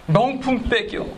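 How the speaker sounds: high, cutesy begging voice for a luxury bag; mock greedy request. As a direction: play a spoiled petitioner asking for a designer bag. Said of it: "이렇게 하면 안 되는 거야". (명품 백을 조르는 높은 애교 섞인 목소리)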